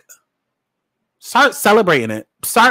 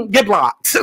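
laughing. Real, not acted. Laughing dismissal of non-fans.

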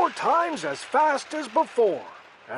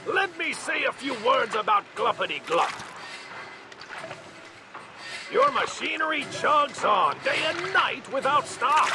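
a touch of a cross Lorax; mildly angry Lorax; 5 semitones higher than usual. Acted. Lorax scolding the Onceler about Gluppity Glup. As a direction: scold a little, dander up. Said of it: "his dander was up".

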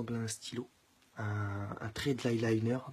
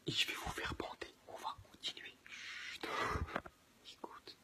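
whispering; 7 dB quieter than usual. Real, not acted. Whispering near sleeping girlfriend.

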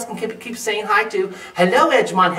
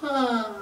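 sigh; 5 semitones higher, 5 dB quieter than usual. Acted. Tired bat sighs.

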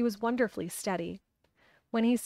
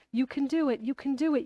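rising, higher and more insistent; urgent encouragement; 5 semitones higher than usual. A narrator's reading. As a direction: push him on, building hope. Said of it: "muttering something under her breath".

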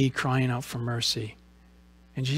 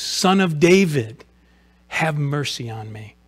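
raised, drawn-out call, then easing; crying out; 3 dB louder than usual. Acted. Blind man calls to Jesus in faith, crying out. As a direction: hold out "Son of David" as a restrained cry. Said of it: "he's crying out".

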